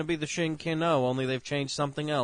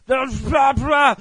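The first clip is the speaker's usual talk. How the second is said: high, loud spluttering shout; sputtering outrage; 12 semitones higher, 10 dB louder than usual. Acted. Reviewer acting out getting pissed in the mouth, sputtering outrage. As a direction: yell through frantic spitting.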